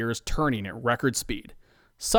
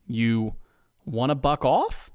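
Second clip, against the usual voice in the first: pleasant; slower than usual. Acted. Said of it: "his most pleasant voice".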